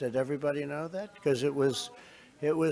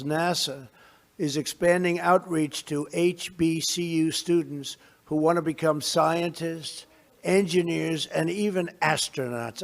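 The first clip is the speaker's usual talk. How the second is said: measured, formal address to a crowd; podium speech; 2 semitones higher than usual. Real, not acted. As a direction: deliver it like prepared remarks.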